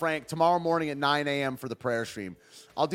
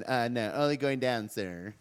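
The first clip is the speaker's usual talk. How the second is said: Droopy voice; 3 semitones lower than usual. Acted. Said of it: "I love that voice. I love Droopy".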